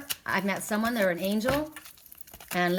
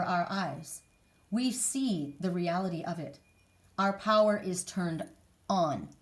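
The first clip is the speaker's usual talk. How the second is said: reading own writing. Shown as a demonstration. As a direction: read it out like a solemn declaration. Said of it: "And this is what I wrote".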